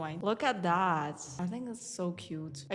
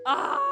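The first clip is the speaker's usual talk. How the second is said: loud, higher "ah"; startled cry; 4 semitones higher, 8 dB louder than usual. Real, not acted. Player startled as the round starts, startled cry. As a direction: cry out in alarm.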